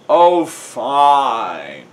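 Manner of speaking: loud, drawn-out groan; hammed-up grudging groan; Riley. A narrator's reading. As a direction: give in with a long, reluctant moan. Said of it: "Riley groans".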